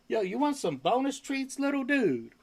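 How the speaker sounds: pet talk. Real, not acted. Talking to the pet.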